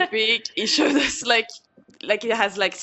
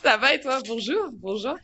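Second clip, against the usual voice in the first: put-on French accent; 4 semitones higher than usual. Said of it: "with my best French accent".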